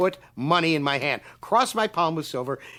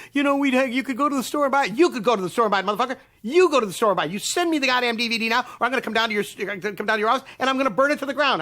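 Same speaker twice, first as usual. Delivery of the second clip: furious threat; 8 semitones higher, faster than usual. Retold or imitated. Threatening the studio over the DVD. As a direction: hammer it home.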